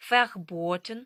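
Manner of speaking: "verboten" starting with f, long o; German V as F. Shown as a demonstration. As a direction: model "verboten" as fer-BOH-ten, rising. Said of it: "вона читатиметься як звук Ф".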